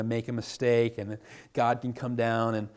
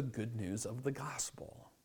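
whispered point; 11 dB quieter than usual. Real, not acted. Sermon climax dropped to whisper.

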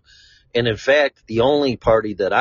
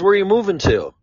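much higher, prying imitation; mock nosy stranger; 10 semitones higher, faster than usual. Stranger presses where he's moving, high mocking voice. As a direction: ask it like a busybody, pitched up.

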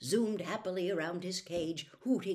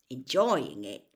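louder, low-key dark disbelief; 3 semitones lower, 7 dB louder, slower than usual. A narrator's reading. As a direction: repeat it back with a touch of gloom. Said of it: "said Ron darkly".

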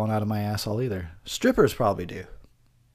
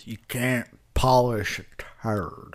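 put-on old man saying; much slower than usual. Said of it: "that's gonna be me when I'm old".

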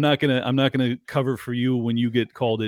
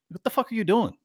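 incredulous; 7 semitones higher than usual. Retold or imitated. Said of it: "I'm like".

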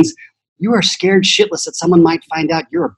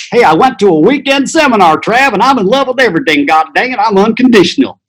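higher, louder, hammed-up know-it-all brag; mock seminar convert; 8 semitones higher, 3 dB louder than usual. Mocking the self-help crowd as a hammed-up smug convert.

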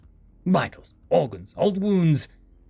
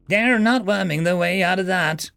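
bird; 6 semitones higher, 3 dB louder than usual. A narrator's reading. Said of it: "the bird said".

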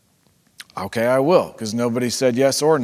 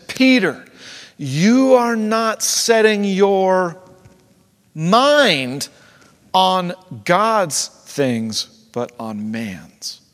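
Jesus, loving emotional correction; 4 semitones higher, 5 dB louder, much slower than usual. Acted. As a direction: correct a friend with feeling, word by word. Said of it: "lovingly, uh, um, emotionally with Peter".

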